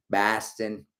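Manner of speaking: BOSTON with a broad Boston first vowel; Boston accent. Acted. Host repeats the city name for fun, mock Boston accent. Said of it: "tried to do a Boston accent".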